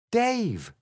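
high-pitched call; a reader's contained yell. A narrator's reading. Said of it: "she yelled".

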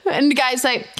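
normal talking voice

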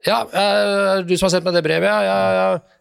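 a hint of a busy doctor on the phone; lightly voiced psychologist. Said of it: "og så sa han".

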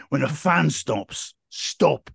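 slow, mock unconvincing slogan; lightly put-on hard man, drawn out slowly; Ray Winston. Actor warning gamblers in an advert, slow unconvincing impression. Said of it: "He says in the most unconvincing voice".

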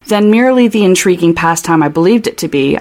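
quick, arch read of the diary line; odd reading. Acted. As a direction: lean on intriguing pastime with a knowing tone. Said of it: "why you said it like that".

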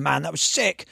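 a touch of retold excitement; mildly acted stoke. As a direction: imitate a stoked surfer. Acting out stoked surfer's reaction.

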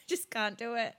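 ordinary talk

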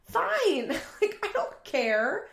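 high, loud mock retort; retold yelling back. Roommate answering the threat to move out, mock angry yell. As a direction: throw it back, acting out a quarrel. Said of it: "while they're screaming at each other".

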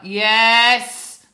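loud, sharp "Yes!"; impatient shout. Retold or imitated. Mother imitating her answer to her son calling at night, loud and sharp. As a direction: snap back at the late call. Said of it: "I'll be like".

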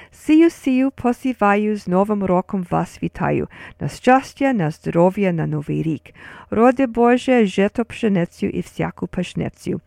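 lively recital of a folk verse in Ukrainian, lifting each line's start; poem recitation. Shown as a demonstration. Host recites a New Year well-wishing poem, rhythmic recitation. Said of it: "It would go something like this".

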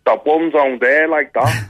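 slow Scouse accent. Shown as a demonstration. Comedian shows one of two Liverpool types, slow Scouse accent. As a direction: drag it out in Scouse. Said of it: "The thing about Scousers, there's two".

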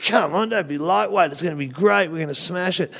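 retold breezy bravado; cocky rallying. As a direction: imitate geeing up reluctant mates. Retells cocky urging of comics.

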